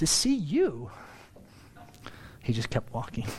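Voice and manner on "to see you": playful, sassy, cheeky smart-aleck tone. Retelling a reply to someone in Jerome: retelling own sassy reply. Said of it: "I was being sassy".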